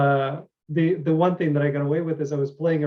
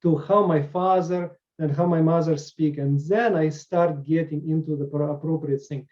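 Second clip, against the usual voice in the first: Russian accent modelled on parents' speech. Shown as a demonstration. Actor explaining how they find the voice, Russian accent. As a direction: slip into a Russian accent with hard R's. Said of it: "when I talk Russian accent".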